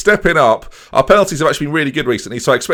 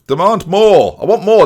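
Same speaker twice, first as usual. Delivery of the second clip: higher, louder touchline demand; shouting at the team; 6 semitones higher, 5 dB louder than usual. Real, not acted. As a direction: bark orders at the players. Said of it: "The shouting's not working".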